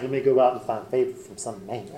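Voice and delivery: put-on light Southern accent, barely there. Teacher voicing Ruth with a slight Southern accent. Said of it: "I'm giving her a southern accent now".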